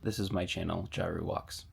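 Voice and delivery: low, soft, measured narration; voice-over introduction. Acted. Scripted channel introduction voice-over.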